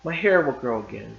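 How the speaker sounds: lightly voiced young wife, pleading; Della pleading. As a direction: coax him gently, half anxious. Reads Della's pleading lines.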